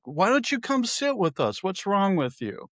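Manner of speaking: high teasing invitation; mock bar woman. Woman at the bar teases him to sit with them, high.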